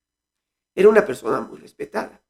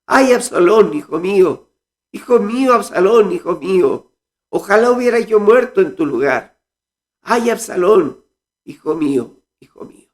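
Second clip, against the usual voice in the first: higher, louder grieving cry for a lost son; weeping lament; 4 semitones higher, 3 dB louder than usual. Acted. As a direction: wail it like a father mourning his son. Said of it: "lloraba y decía".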